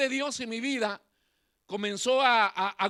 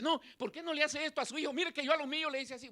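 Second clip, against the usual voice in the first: meddling mother; 4 semitones higher, 6 dB quieter, faster than usual. Retold or imitated. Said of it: "hay madres que se meten y dicen".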